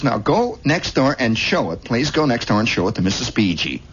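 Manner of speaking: lightly voiced mom; a touch of motherly coaxing. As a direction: urge gently like a mother. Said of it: "And she says".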